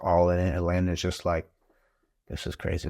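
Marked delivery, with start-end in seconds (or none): 2.3-2.9 overwhelmed mutter. Retold or imitated. Landon overwhelmed at skinning.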